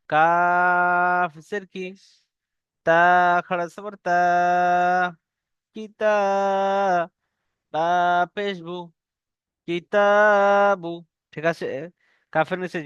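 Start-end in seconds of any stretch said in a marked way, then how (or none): 0.1-10.9 কিতাবু built slowly syllable by syllable; slow spelled recitation. Shown as a demonstration. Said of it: "যেমন".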